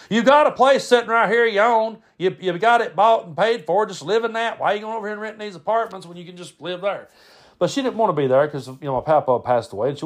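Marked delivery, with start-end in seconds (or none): 0.1-7.1 high, exasperated pleading; baffled uncle Brad. Retold or imitated. Uncle questioning grandmother's move, baffled and exasperated. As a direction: act out an uncle who just can't understand it. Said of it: "My Uncle Brad could never understand that".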